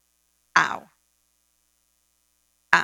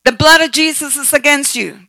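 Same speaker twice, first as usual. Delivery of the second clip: a firm rebuke of Satan, a little louder; warfare prayer; 3 semitones higher, 4 dB louder than usual. Shown as a demonstration. Preacher demonstrates spiritual warfare against Satan, firm rebuke. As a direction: command the enemy to back off. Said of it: "Do you see how I'm praying?".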